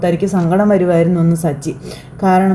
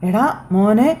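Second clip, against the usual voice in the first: higher, fond chiding "why are you crying"; motherly teasing tease, voiced higher; teacher-mother coaxing; 7 semitones higher than usual. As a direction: coax a grown son like a mother. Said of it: "എന്നും ചോദിച്ചുകൊണ്ടിങ്ങനെ".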